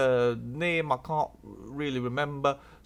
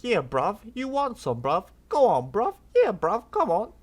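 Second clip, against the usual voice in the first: higher and louder taunting; loud roadman taunt; 4 semitones higher, 5 dB louder than usual. Retold or imitated. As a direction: goad him into a fight. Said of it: "Paul's like".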